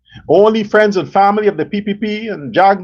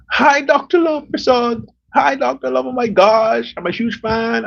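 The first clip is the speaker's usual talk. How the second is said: fan voice; 5 semitones higher than usual. Retold or imitated. Voicing excited fan greeting.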